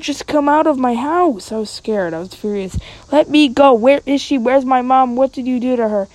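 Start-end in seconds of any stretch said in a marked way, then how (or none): 3.1-6.1 high, loud frightened yell; screaming. Retold or imitated. Kid screaming at a stranger about mom. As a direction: scream at the captor to let go. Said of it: "my throat stung from screaming".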